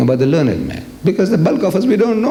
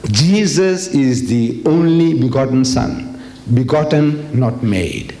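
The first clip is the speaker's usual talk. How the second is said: slow, measured creed recital; reciting catechism; 2 semitones lower, slower than usual. Retold or imitated. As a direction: recite a doctrine word by word. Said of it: "in that they say".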